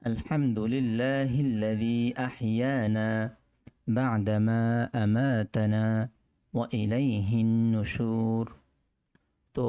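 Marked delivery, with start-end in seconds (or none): 0.0-8.5 slow, deliberate Arabic recitation. Shown as a demonstration. Teacher recites the waking dua slowly for students. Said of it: "আপনাদের সুবিধার্থে আবার বলছি".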